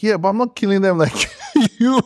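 laughing through quote. Retold or imitated. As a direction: play the line as a cheeky comeback, cracking up at the end. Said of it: "She's like".

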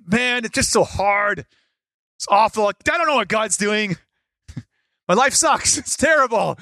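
exaggerated moaning, half laughing; mock whining complaint. Preacher mocking a complaining Christian, whiny. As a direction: whine it out like a self-pitying friend.

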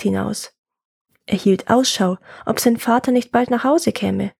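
measured folk-tale narration; story narration. A narrator's reading. Telling a woodcutter's folk tale, story narration. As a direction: read it as a tale for listeners.

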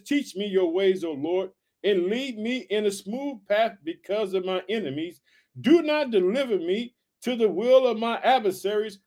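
slow, lifted scripture reading. Acted. Preacher reading the psalm to his family, slow and lifted. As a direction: read the verse out with weight. Reads verse eleven aloud.

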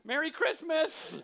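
high, loud, drawn-out holiday cheer; hammed-up big reveal, stretched and high; mock festive cheer. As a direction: sing out a mock-triumphant greeting. Acting out underwhelming gift reveal.

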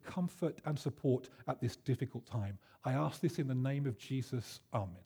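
earnest, understated intercession; retold prayer. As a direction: pray gently for someone, as retold. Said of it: "So he prayed".

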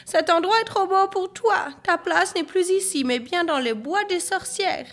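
high-pitched angry banishing; furious mother. A narrator's reading. Mother sends Marine to the witches' wood, high fury. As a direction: keep scolding high, without shouting. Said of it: "répliqua la maman furieuse".

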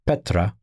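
Petra said PEH-trah, stress on the first syllable; Petra, spoken carefully with a falling end; Greek pronunciation. Shown as a demonstration. Teacher naming the Greek word for rock, careful Petra. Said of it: "The Greek words for Peter".

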